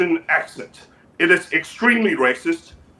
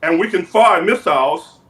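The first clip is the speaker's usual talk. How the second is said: measured, halting dictator voice; North Korean leader character. Acted. Leader boasts about noodles and gifts, measured dictator voice. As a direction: boast in deliberate, accented phrases.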